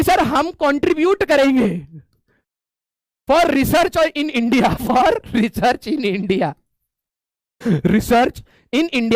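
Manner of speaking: drawn-out, very slow mock plea; slow desperate pleading. Students beg the HOD, very slow pleading. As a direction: stretch every word like begging students.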